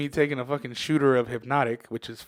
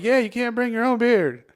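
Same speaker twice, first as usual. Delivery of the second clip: high, loud echo of a scolding; mock indignant agreement; 9 semitones higher, 5 dB louder than usual. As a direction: chime in righteously, voice pitched up. Drunkenly echoes bartender's scolding at others.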